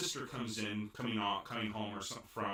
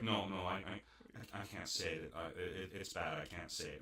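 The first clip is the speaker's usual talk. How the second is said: reluctant mumble; 3 semitones lower, 6 dB quieter than usual. Retold or imitated. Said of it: "He's like".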